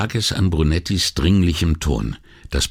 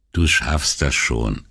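reassuring; 4 semitones lower, slower than usual. Acted. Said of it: "Paola klang jetzt ehrlich besorgt".

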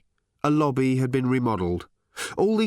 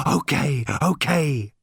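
excited, breath-catching pants, pitched up; panting; 4 semitones higher, 3 dB louder, slower than usual. A narrator's reading. Robot calming down to answer Ford, panting. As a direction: pant between the words. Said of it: "panted the robot".

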